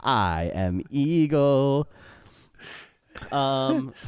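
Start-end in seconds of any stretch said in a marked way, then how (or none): 0.0-1.9 slow, grand eagle proclamation; grand declaration. Acted. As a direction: declare it majestically.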